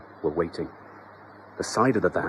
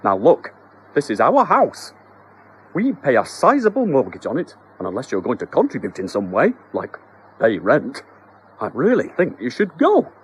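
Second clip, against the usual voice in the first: a husband trying to sound stern, louder; mock stern husband; 3 semitones higher, 6 dB louder than usual. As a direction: lecture the mouse with forced firmness. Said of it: "tried to look stern".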